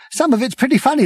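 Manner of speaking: high voice breaking into laughter; laughing. Acted. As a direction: laugh while saying it. Prack laughing.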